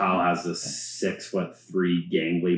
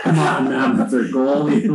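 louder, higher exasperated plea; retold protest; 7 semitones higher, 9 dB louder than usual. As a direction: protest loudly on a teammate's behalf. Retelling his protest about goalie.

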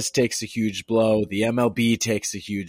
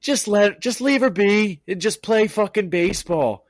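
much higher, pleading exasperation; exasperated plea; 10 semitones higher, 4 dB louder than usual. Real, not acted. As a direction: beg them, fed up and pleading. Exasperated plea about player's arrest.

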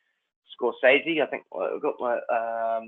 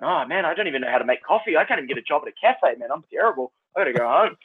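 mildly mock despair, higher pitch; retold self-doubt; 3 semitones higher than usual. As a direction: bemoan your uselessness, half-joking. Retold despairing job rant.

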